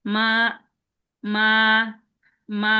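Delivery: মা held flat and level; first tone. Shown as a demonstration. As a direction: keep মা on one even pitch. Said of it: "প্রথম টোনটা হবে". (মা সমান সুরে)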